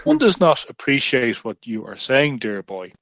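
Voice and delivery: slow, mock Queen's English; hammed-up Queen's English accent. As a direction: put on a haughty royal accent, slowly, dropping away at the end. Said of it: "do the Queen's accent".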